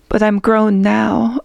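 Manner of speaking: slow, lightly sobbing plea; a touch of tears, slowed down. Acted. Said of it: "I sobbed".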